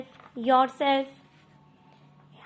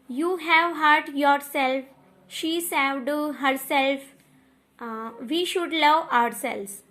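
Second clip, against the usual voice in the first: slow example sentences; slower than usual. Shown as a demonstration. Teacher reading out example sentences.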